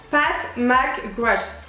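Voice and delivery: laboured English name in a French accent; French-accented go at English pronunciation; bad English accent. Shown as a demonstration. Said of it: "mon accent il est vraiment pété".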